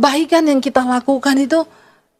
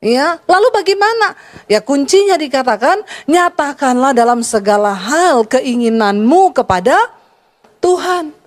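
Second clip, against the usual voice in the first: raised preacher's voice, reading scripture; preaching; 3 semitones higher than usual. Acted. Pastor preaching to the congregation about worry, raised voice. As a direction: proclaim it to the congregation.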